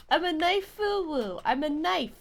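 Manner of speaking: ordinary talk, nothing marked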